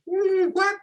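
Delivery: mock dumbfounded reaction; baffled what. Listeners stunned by his quota answer, high baffled squeak. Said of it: "They go".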